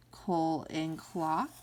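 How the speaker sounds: "coal" slow, then "clock"; sounding out. Shown as a demonstration. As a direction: draw out "coal" slowly before "clock".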